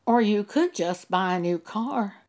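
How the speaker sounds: gentle Holy Spirit voice; gentle suggestion. Shown as a demonstration. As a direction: suggest it lightly, like an option. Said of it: "in this tone of voice".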